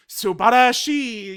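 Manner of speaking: slow, savoring Subarashi; a hint of a gloating villain; lightly voiced Goku Black. Black admiring his stolen Saiyan body, lightly voiced gloating. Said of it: "and he does his".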